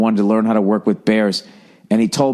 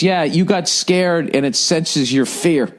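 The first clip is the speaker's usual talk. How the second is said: slow trainer voice; 4 semitones higher, slower than usual. Retold or imitated. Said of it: "And then the guy goes".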